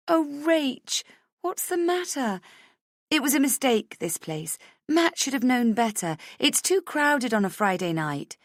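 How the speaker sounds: put-on high, sympathetic girlfriend voice; comforting friend. Friend in the toilets consoling crying Rach, high and sympathetic. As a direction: soothe her like a worried best friend.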